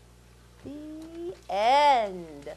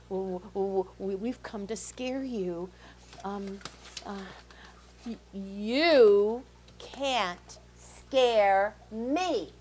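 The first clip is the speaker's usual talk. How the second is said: jack o lantern voice; 2 semitones lower, slower than usual. Acted. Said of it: "said the pumpkin head, suddenly looking very unhappy".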